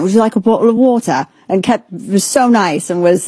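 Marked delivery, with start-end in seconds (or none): 0.0-1.3 put-on brisk, polite British accent; playful British accent, fussing kindly; British accent impression. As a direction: offer water in a British accent, a bit quicker. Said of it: "in his accent".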